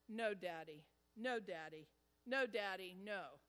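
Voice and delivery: a child's firm refusal, lightly voiced; adamant little boy. Preacher voicing his son refusing at the cliff, adamant. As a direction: insist no like a scared toddler. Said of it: "adamantly said".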